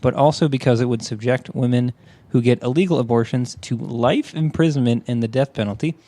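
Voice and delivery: measured, informative reading; news article read-aloud. Real, not acted.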